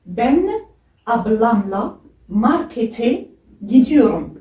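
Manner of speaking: slow, careful Turkish: "Ben ablamla markete gidiyorum"; Turkish demo sentence. Shown as a demonstration. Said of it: "En langue turque, c'est".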